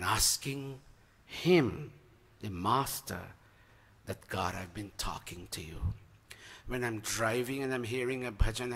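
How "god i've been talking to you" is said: intimate prayer. Acted.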